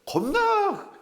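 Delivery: 겁나 flung up high; 겁나 said high and sharp like a startled cry; demo of 겁나. Shown as a demonstration. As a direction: toss 겁나 out in a high squeal. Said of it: "이 겁나란 말이 여기 안 들어가야 되는".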